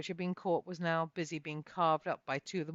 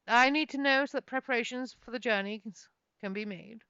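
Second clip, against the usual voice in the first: higher, louder, commanding noble; haughty announcement; 5 semitones higher, 5 dB louder than usual. Acted. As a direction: demand answers from his cousin. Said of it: "stared hard at the magic user and announced".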